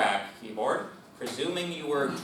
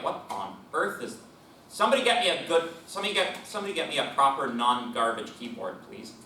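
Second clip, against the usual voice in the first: exasperated; 3 semitones higher, faster than usual. Retold or imitated. Imagined frustrated user.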